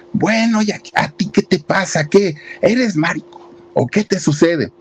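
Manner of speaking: high mock angry father shouting at his son; father yelling. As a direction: play the outraged father, pitch way up. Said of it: "y le grita enfrente de todo mundo". (padre gritando indignado, voz aguda)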